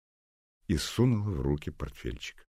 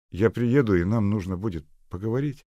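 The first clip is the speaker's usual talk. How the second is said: put-on earnest young man; 7 semitones higher, 7 dB louder than usual. Seryozha on the phone.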